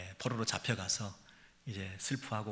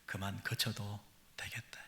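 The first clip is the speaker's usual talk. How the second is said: soft whisper; 6 dB quieter than usual. Acted. God softly tells a weeping people to stop crying, whispered. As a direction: breathe it out gently, almost no voice. God's comfort, softly quoted.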